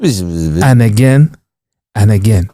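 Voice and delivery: drawn-out, mock-solemn repetition; Cantona's speech rhythm. Comedian repeating the can's cycle, mock-profound oration. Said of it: "He got the rhythm of how to just captivate the room".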